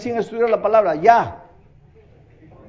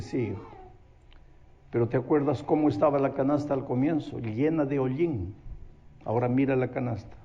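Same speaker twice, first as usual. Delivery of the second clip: gentle grandmother; 5 semitones lower, 6 dB quieter than usual. Acted.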